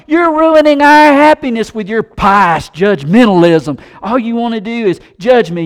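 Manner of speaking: rising, loud offended outburst; indignant accusation. Retold or imitated. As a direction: hurl the charge back at the believer in outrage. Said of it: "He says".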